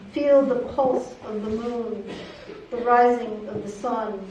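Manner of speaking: measured poem recital with frequent pauses; poetry reading. Acted. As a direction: read it as a poem, phrase by phrase. Reads second poem aloud.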